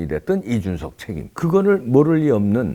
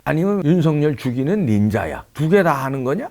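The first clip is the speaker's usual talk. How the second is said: ordinary talk, nothing marked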